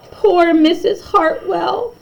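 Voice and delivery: a touch of pity in it; sadly. Acted. Students picturing their goodbye, mildly sad. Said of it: "they all said sadly".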